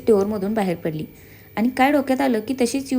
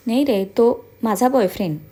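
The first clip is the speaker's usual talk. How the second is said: faking shyness; 3 dB louder than usual. Acted. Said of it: "लाजत म्हणाली ... खराब ॲक्टिंगवर".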